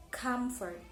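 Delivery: "comfort" with COM strong, then falling; stress on root syllable. Shown as a demonstration. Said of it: "in the same place as the root".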